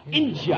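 "India" as a loud "IN-jah"; stagy British "India", said as "Inja"; English pronunciation. Shown as a demonstration. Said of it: "No, not India".

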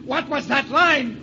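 manic laughter. Acted. Obsessed man, unhinged.

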